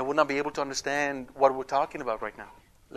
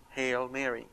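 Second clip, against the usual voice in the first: gentle repetition; 3 semitones lower, 8 dB quieter than usual. Shown as a demonstration. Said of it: "that is why we repeat".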